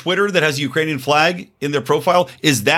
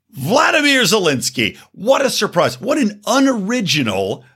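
sarcastic mock surprise; 5 semitones higher than usual. Real, not acted.

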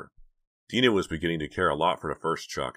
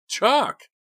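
very high, loud scream of a name; terrified scream of her brother's name; 8 dB louder than usual. A narrator's reading. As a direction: shriek his name in panic. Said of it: "she screamed".

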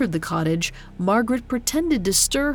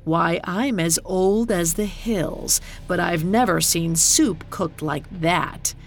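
gravelly voice. Acted. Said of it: "said in a gravelly voice".

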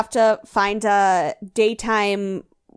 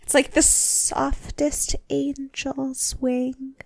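gushing Tyra; 4 semitones higher, 4 dB quieter than usual. Retold or imitated. Quotes Tyra's gushing.

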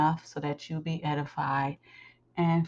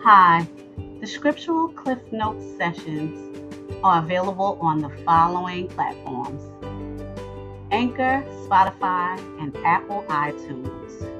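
promo read; 2 semitones higher than usual. Acted. Host telling listeners where to follow the sessions, promo read.

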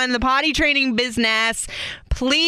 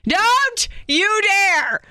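drawn-out warning; 10 semitones higher, much slower than usual. Real, not acted. Warning friend not to tell.

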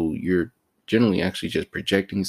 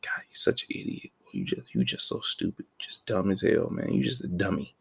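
harsh inner voice; 6 dB quieter than usual. Retold or imitated. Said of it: "I messed up and I was like".

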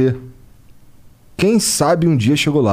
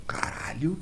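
whispering; 16 dB quieter, slower than usual. Real, not acted. Awed reaction to praise.

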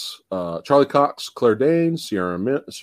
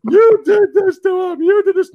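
much higher, louder accusing yell; mock outraged parent; 7 dB louder than usual. Showing her the trailer, hammed-up angry accusation. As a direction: ham up the terrible trailer line. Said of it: "Watch this horrible acting".

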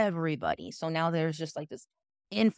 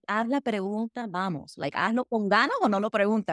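impatient challenge; 4 semitones higher than usual. Acted. Acted impatient challenge to questioner.

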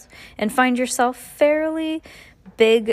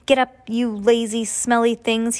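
muffled foreman voice; 3 semitones higher than usual. Acted. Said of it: "he cried in an odd sounding voice".

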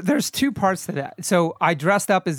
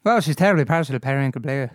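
put-on Cockney Irish accent; 2 semitones lower than usual. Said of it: "like, Cockney Irish accent".

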